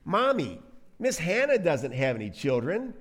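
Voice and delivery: lightly voiced child piping up; a hint of an innocent kid telling mommy; little child. Little one remarking on Hannah to mommy, lightly voiced child. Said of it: "says the little one".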